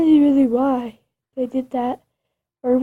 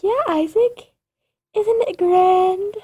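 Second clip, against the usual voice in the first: gleeful ghost; 7 semitones higher, slower than usual. Acted. Ghost gloating to Isaac.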